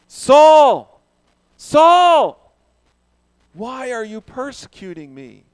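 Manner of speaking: loud, high booming shout of the name; thundering divine voice; booming yell. Acted. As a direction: call out like a voice from heaven. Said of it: "why did I yell that".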